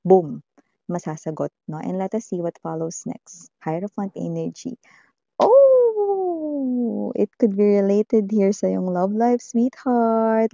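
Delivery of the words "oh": surprised oh. Real, not acted. Surprise at a tarot card.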